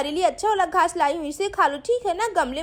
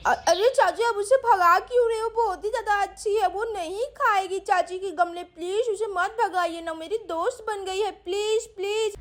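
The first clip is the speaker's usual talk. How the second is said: put-on a sweet girl coaxing the cow, pitched up; little girl Sweety; 2 semitones higher than usual.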